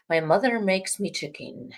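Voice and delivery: a hint of an Irish accent; attempted Irish accent. Shown as a demonstration. Restarting the poem for a co-host, slight Irish accent. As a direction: have a half-successful go at Irish. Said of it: "a little Irish accent".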